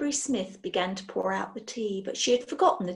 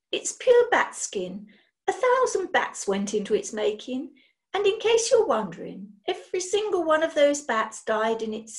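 proud brisk witch; 3 semitones higher than usual. Acted. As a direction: show off the bat-skin gown with relish. Witch boasts of her gown.

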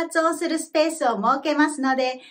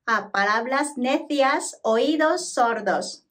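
careful Spanish phrase with linked words; measured, clear repetition model; slightly quicker model; 2 semitones lower, slower than usual. Shown as a demonstration. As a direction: say it a bit more fluently for students to copy. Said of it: "今度はもう少し早めに発音してみます".

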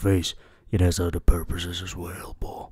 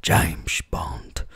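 hushed, slow secret-agent whisper; half-whispered Bond catchphrase, lightly played; mock James Bond line; 2 semitones lower, much slower than usual. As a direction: breathe it like a spy in a kid's game. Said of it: "run around the house saying".

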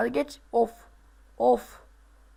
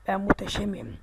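whispered boast; playful whisper; 3 semitones lower than usual. Pretend. Gamer whispering his boast to himself after a jump. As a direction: breathe the boast like a secret. Repeated boast while playing.

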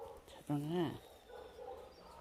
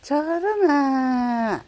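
calling out; 3 semitones higher, 6 dB louder than usual. Real, not acted. Calling dog by name.

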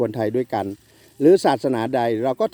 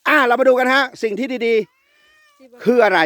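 high, loud and very slow, like an announcer; dragged-out, raised host's presentation voice; slow showman announcement; 9 semitones higher, 4 dB louder, much slower than usual. Acted. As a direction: draw it out to present the product. Host presenting product.

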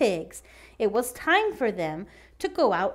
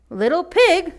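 sly wolf; 6 semitones higher, 7 dB louder than usual. Acted. Wolf voiced in story.

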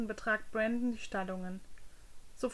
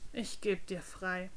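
soft, lower, slow resignation; weary sigh; 3 semitones lower, 6 dB quieter, slower than usual. Acted. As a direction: let it out on a tired breath. Prince sighs, gives up.

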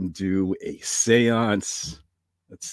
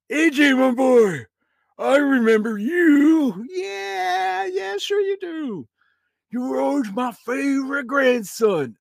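put-on high, slow cranky old man; old grandpa voice; 13 semitones higher, 6 dB louder, slower than usual. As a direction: bark like a grumpy grandpa. Grandpa ghost voice.

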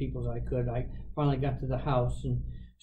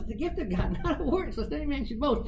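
higher quoted voice; heard voice; 8 semitones higher than usual. Retold or imitated. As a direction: chant the verse up high. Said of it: "and the hmm said".

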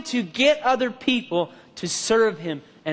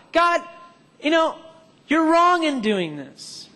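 accusing; 5 semitones higher than usual. Retold or imitated. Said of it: "began to judge God".

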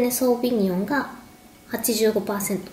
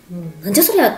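annoyed outburst; 3 semitones lower, 6 dB louder, faster than usual. Retold or imitated. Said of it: "怒った人たち".

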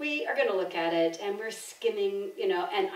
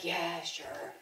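imitated offhand reply; 3 semitones lower, 8 dB quieter than usual. Retells Alan's casual reply.

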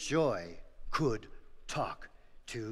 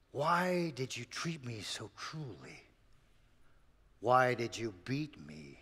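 sorrowful ox; 3 semitones lower than usual. Acted. Ox answers sorrowfully.

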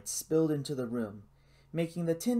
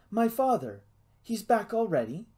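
high-pitched, startled questions; surprised questioning; 8 semitones higher, 3 dB louder than usual. A narrator's reading. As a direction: ask in sudden surprise, pitch lifted. Boy surprised by father's return.

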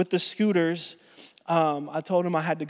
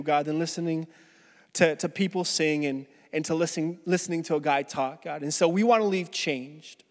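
prayer; 3 semitones lower than usual. Acted. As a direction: pray gently to God. Pastor leads opening prayer.

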